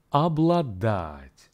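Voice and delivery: Обладать slow, ab-la-DAT; Обладать drawn out for practice; slow repeat model. Shown as a demonstration. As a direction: give Обладать slowly to repeat. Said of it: "listen again and repeat".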